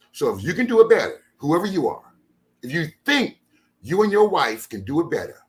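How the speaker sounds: high, loud daring shouts; taunting challenge. Real, not acted. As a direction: throw the dare at every critic. Daring critics to host the event.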